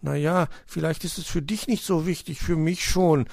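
put-on mildly grumpy high child voice; grumbling. A narrator's reading. Hedgehog child answering the cat, grumbling. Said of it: "brummte Borstel".

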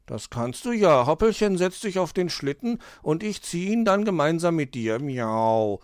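high kitten voice ending in a miaow; playful kitten. Acted. Cat proposes pulling the sledge, high kitten voice. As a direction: play a helpful little cat.

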